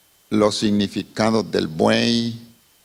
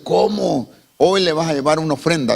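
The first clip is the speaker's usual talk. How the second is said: incredulous; 4 semitones higher than usual. Acted. Brother reacts in disbelief.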